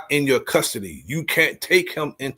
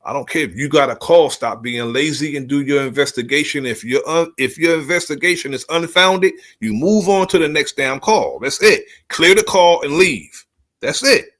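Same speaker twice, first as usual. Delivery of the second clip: rising from firm to heated, louder and higher; calm turning angry; 3 semitones higher, 3 dB louder than usual. Real, not acted. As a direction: build the rant until it boils over. Ranting at lazy police response.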